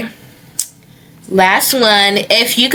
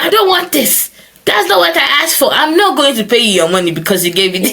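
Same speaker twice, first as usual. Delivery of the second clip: picky customer; 6 semitones higher, faster than usual. Retold or imitated. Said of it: "they be like".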